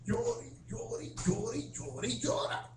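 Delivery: slow, drawn-out mock complaint; puzzled questioner. New convert asking people about altar weeping, mock puzzled. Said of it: "le hice esta pregunta a la gente".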